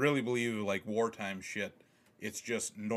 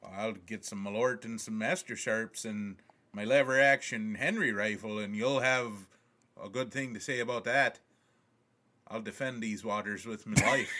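mock Southern accent; 3 dB louder than usual. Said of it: "speaking in southern accents".

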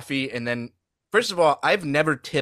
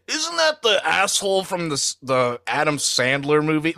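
mock stranger recognizing; 3 semitones higher than usual. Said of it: "it's like".

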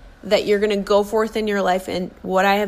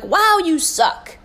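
scornful inner voice; 8 semitones higher, 3 dB louder, slower than usual. Retold or imitated. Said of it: "I'm like".

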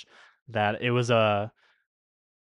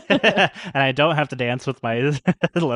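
laughing; 3 semitones higher, 4 dB louder than usual. Retold or imitated. Laughing through acted quote.

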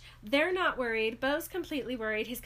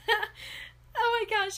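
slow amused; 10 semitones higher, 5 dB louder, much slower than usual. Real, not acted. Laughing aftermath.

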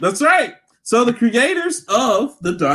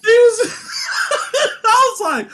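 laughing hard; 14 semitones higher than usual. Real, not acted. Laughing while retelling the boss fight.

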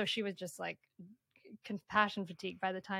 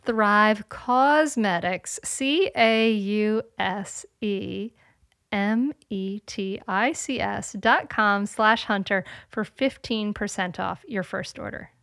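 put-on slow spelled-out promo code, Boston accent; 10 dB louder, slower than usual. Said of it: "in a Boston accent".

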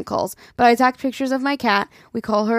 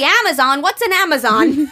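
confused grandma; 5 semitones higher, 5 dB louder than usual. Retold or imitated. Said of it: "She's like".

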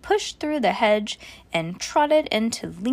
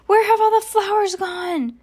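louder, higher outraged shout; 9 semitones higher, 6 dB louder than usual. A narrator's reading. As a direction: shout at the missing flowers. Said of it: "shouted Eugenia".

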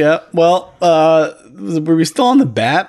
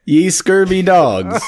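pirate voice; 5 semitones higher, much slower than usual. Pretend. Playing the pirate bit.

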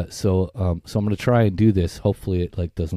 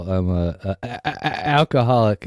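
fake stutter. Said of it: "That's why we were doing the stuttering".

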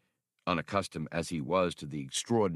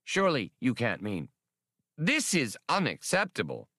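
rising, fretful objection; a touch of alarm as he shrinks back; dismayed protest; 4 semitones higher than usual. Acted. Professor shrinks from the bag, in mild dismay. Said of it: "antennae wobbling in dismay".

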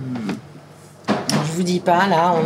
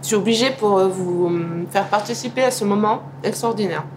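mouth full. Real, not acted. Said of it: "On ne doit pas parler la bouche pleine".

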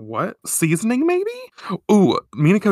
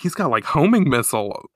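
ordinary delivery

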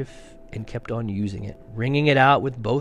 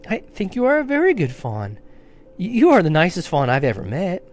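high, earnest praise; comforting; 6 semitones higher, 5 dB louder than usual. Acted. Lucy praises the fawn, reassuring. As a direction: insist kindly, like a child.

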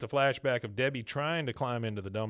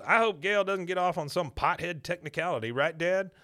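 quoting Bobby; 6 semitones higher, 4 dB louder than usual. Retold or imitated. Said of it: "Bobby pipes up and goes".

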